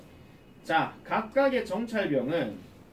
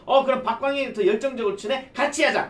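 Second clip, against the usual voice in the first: loud, high, eager exclamation; mock excited bees; 7 semitones higher, 8 dB louder than usual. Other bees decide to join the dance, high loud excitement. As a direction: play a bee keen to join in.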